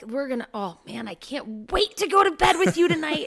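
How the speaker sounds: play-acted, eager, worked-up voice full of anticipation. Retelling own past words to partner about bedtime: imitating own excited self. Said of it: "'cause I get so excited, and I'm like".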